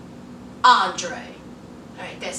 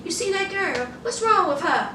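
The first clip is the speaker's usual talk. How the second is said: softer, like leaning over to share gossip; mock side whisper; 3 semitones higher, 7 dB quieter than usual. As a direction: hush it as a sly aside to a friend. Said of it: "he wanted to lean over to Andre and say".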